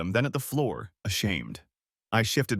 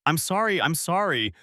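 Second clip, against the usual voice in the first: high, repeated tearful sorry; tearful apology; 7 semitones higher than usual. A narrator's reading. Sobbing wife begging for forgiveness, high and tearful. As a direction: climb into a pleading, sobbing apology. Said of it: "she choked out".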